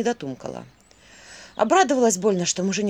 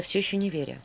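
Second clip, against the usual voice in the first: plain reading voice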